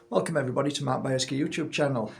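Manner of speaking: fast, flat robotic sound. Real, not acted. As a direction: talk like a glitchy robot. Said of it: "I sound like a robot".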